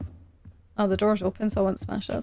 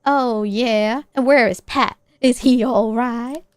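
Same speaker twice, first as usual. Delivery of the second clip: voicing Mom; 6 dB louder than usual. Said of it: "I can't do accents".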